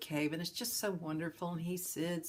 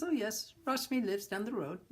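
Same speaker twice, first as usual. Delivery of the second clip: villager voice; 6 semitones higher than usual. Retold or imitated. Villager answers.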